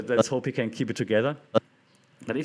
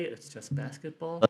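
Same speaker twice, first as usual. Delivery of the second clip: higher, softer dismissive quote; mock shrug-off; 4 semitones higher, 5 dB quieter than usual. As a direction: sneer at the excuse. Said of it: "You think he would say".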